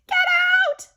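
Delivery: loud angry get out; hollering. A narrator's reading. Lady hollering at the kids at her door, loud. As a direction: bark them off the porch. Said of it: "she hollered".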